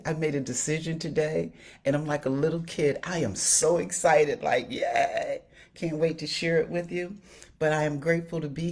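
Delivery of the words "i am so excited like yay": excited squeal. Real, not acted.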